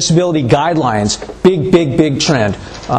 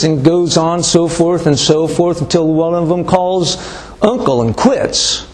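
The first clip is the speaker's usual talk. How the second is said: put-on old man; 3 semitones higher than usual. Old farmer explains three-kick rule to lawyer, lightly voiced old man. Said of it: "old man says".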